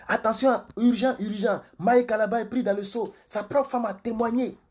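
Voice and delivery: high-pitched, urgent scandal announcement; mock breaking-news alert. Pastor parodying urgent gossip live streams, mock breaking-news alert. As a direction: sound the alarm like a gossip broadcaster. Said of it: "Si je parlais comme ça là".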